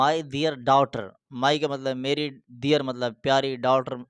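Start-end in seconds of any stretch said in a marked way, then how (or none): 0.0-1.1 very slow, every word drawn out; slow teaching demo. Shown as a demonstration. Teacher modelling how to greet a daughter, very slow. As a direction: lay each word out slowly for a learner. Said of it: "بچی سے پوچھ رہے ہیں تو اس کو آپ نے بولنا ہے".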